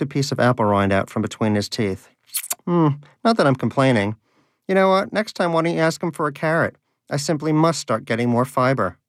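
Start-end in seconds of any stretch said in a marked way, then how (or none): 2.7-9.0 mocking. Danish mocks Donut's prayer.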